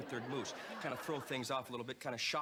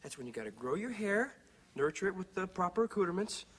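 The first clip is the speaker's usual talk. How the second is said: loud, passionate hair sermon; 5 semitones higher, 3 dB louder than usual. Acted. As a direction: preach it with fire. Jesse preaching about hair.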